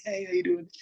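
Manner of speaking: very high, timid falsetto hello; soft timid greeting. Retold or imitated. Shy fan greeting a guitarist in a tiny high voice. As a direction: squeak it out like a shy guy meeting the band. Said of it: "probably all soft".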